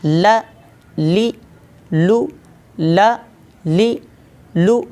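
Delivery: ल, ली, लू each said alone, plain and not nasal; practice drill syllables. Shown as a demonstration. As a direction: drill ल ली लू with a clean lam. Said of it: "इसकी practice करते हैं".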